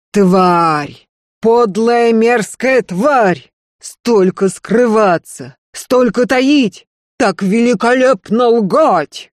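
трагик ревёт, медленно, выше и громче; разъярённый актёр бросает оскорбления; гремящий гнев. A narrator's reading. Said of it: "Гремел голос Снежаева". (премьер-трагик в ярости кричит на жену)

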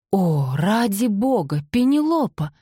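tight, strained exasperation rising high on the name. A narrator's reading. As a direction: hold back irritation, barely. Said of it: "натянуто произнёс Колин".

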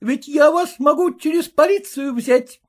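voiced husband, threatening exclaim. A narrator's reading. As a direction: warn her with the police. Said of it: "воскликнул Порфирий Васильевич".

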